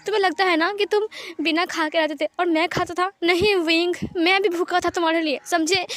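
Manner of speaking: tearful reproach. Acted. Lan Wangji reproaching Wing for staying away, tearful. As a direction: pour out hurt through acted tears. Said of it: "please मत रो लंजा".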